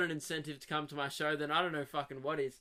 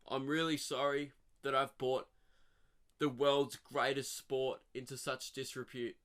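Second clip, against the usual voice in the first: mock tearful apology; 3 semitones lower, 3 dB quieter than usual. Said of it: "he's bawling his eyes out ... then he goes".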